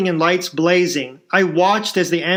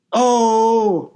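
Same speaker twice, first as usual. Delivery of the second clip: labor scream; 5 semitones higher than usual. A narrator's reading. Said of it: "Rhonda screamed one last time".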